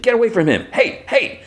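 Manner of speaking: high-pitched contained yell; strained high imitation of a frantic shout; mock yelling. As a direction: shout him off without real volume. Yelling a man away from victim.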